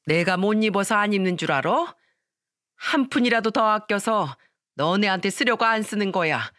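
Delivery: stern mother-in-law berating her daughter-in-law; angry scolding. Acted. Mother-in-law scolding her son's wife, angry and stern. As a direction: scold her with hurt, rising anger.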